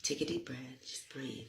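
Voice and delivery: calm breathing cue. Shown as a demonstration. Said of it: "y'all messing up".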